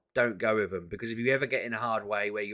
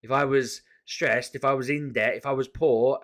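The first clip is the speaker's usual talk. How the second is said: loud, building angry rant; ranting at her; 3 semitones higher, 6 dB louder than usual. Retold or imitated. Ranting at the debt caller about vulnerable people, loud. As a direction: hammer each if at her. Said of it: "And I went ballistic".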